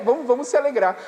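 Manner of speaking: ordinary delivery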